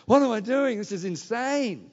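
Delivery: mock alarm, half to himself; freaking out inside. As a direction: play the inner panic of a man in over his head. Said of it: "I'm freaking out".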